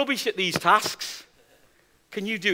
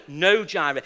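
firm no; 5 semitones lower than usual. Retold or imitated. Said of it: "She must have asked me five times".

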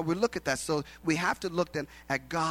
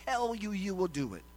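loud, drawn-out proclamation falling away at the end; voice of God; 5 semitones higher, 7 dB louder than usual. Acted. God stops Abraham with the sword, booming proclamation. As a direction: start high and booming, drop off to finish. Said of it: "God says".

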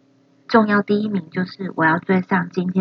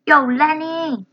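higher, loud bossy big brother; imitating Frankie; 7 semitones higher, 3 dB louder than usual. Learner echoing Frankie bossing Lenny, loud and higher. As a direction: yell orders at your little brother. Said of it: "copies Frankie clip".

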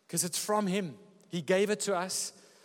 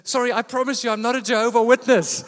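wary lady; 7 semitones higher, 12 dB louder than usual. Retold or imitated. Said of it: "looks at Eliana and says".

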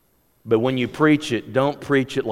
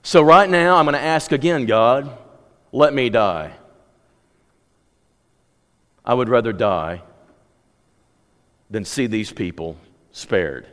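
despairing plea; 3 dB louder than usual. Acted. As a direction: let the voice give up by the end. Jonah asks to die.

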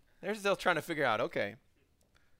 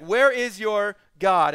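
smack-talking; 3 semitones higher, 8 dB louder, slower than usual. Acted. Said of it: "he's basically smack-talking these guys".

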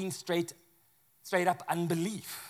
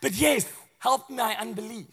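flustered hope; 5 semitones higher than usual. Retold or imitated. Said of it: "'Cause he was like".

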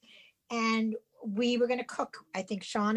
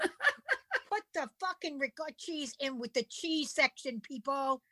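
laughing rant; 3 semitones higher, slower than usual. Real, not acted. Ranting at Walmart, laughing.

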